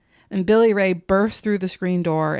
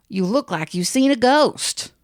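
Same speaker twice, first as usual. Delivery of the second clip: put-on spooked old man; 5 semitones higher than usual. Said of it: "And Lucky would say".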